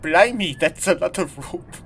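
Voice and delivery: high-pitched mock-British outburst; exaggerated British exclamation, starting high and loud; British accent. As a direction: put on a loud British "Blimey". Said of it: "Kai is British".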